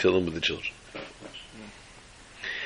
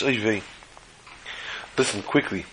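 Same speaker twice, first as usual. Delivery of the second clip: hushed urgent warning; 8 dB quieter than usual. Retold or imitated. Wife secretly warning tied captive.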